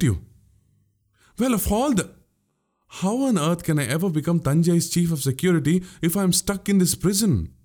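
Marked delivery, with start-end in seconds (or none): 1.4-7.5 higher, dismayed lament; sorrow and dismay. Acted. Jailed Vandiyathevan protests to Alvarkadiyan, in sorrowful dismay. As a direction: wail it out in theatrical sorrow. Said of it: "voice dripped with the perfect blend of sorrow and dismay".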